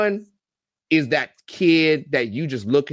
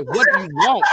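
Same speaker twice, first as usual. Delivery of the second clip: exasperated dad; 8 semitones higher, 5 dB louder than usual. Retold or imitated.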